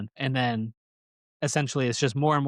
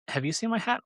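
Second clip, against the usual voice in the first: bear voice; 10 semitones higher than usual. Retold or imitated. Bear asking animals.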